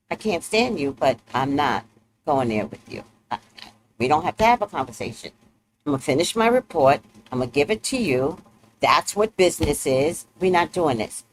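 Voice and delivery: low, fairly soft brush-off; lightly voiced Taurus keeping it strictly business; unbothered Taurus. Taurus refusing conversation at work, low-key brush-off. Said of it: "Tauruses are like this".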